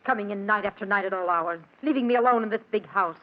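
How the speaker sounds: complaining, accusing wife; nagging wife. Acted. Wife scolding husband home late at night, nagging. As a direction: needle him with weary reproach.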